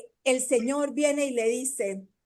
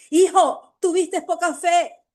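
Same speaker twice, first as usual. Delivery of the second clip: louder, higher reproach to a son; stern rebuke; 3 semitones higher, 4 dB louder than usual. Shown as a demonstration. The Lord scolding his son for doubting, loud and firm. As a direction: call the son out firmly. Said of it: "No que nos diga".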